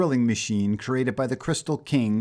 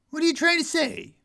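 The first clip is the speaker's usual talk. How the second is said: a much higher, falsetto clown voice; mock-innocent clown. A narrator's reading. The mad clown leans in close to Menace, squeaky innocence. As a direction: play dumb in a squeaky pitch.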